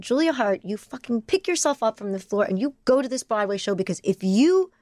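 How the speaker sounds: rallying herself off the floor; stern self pep talk. Retold or imitated.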